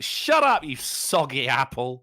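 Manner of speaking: mock insult. Shown as a demonstration. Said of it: "That's my new insult".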